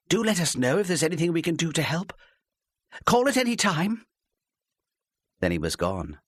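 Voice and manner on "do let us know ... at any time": high, eager over-friendly offer; gushing. A narrator's reading. Wife gushing to the departing policeman, over-friendly. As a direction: gush at the policeman, too friendly. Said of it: "almost gushing".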